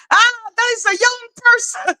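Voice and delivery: high put-on voice, amused; mock old-timer remark. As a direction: sigh it out like a knowing elder. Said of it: "And I'm like".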